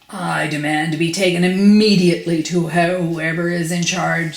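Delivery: loud, indignant demand; angrily. Acted. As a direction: demand angrily, leaning hard on the words. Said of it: "said Mister Uppity angrily".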